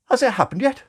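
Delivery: high, loud, eager question; anxious father. Acted. New father bursting in, anxious and loud.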